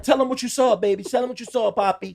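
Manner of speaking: high coaxing mom voice; imitating mother. Mother urging son to tell the cop, high coaxing. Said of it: "She like".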